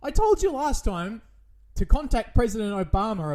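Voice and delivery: mock outrage. Angry rant at producer Mitch.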